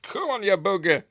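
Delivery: comic strained mock Vader; Vader straining. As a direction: ham up a struggling pilot. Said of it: "'Cause he was going".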